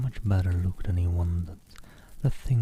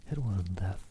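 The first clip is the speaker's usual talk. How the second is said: moaning; 6 dB quieter than usual. Acted. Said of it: "moaned Tippett".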